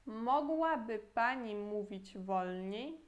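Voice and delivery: slow, careful Polish model sentence; slow teaching read; slow model phrase. Shown as a demonstration. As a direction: spell it out slowly for learners. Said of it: "de novo".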